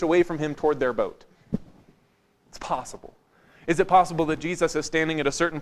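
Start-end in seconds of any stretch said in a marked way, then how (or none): 2.5-3.1 quiet, low, offhand admission; low-key allowance; understated concession. Shown as a demonstration. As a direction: concede it softly under your breath. Conceding an alternative explanation.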